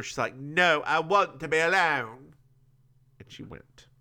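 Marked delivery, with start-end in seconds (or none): 0.4-2.3 hammed-up dramatic refusal. Recapper voices Andrea refusing company, hammed-up drama. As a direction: make a big drama of it. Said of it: "Very dramatic".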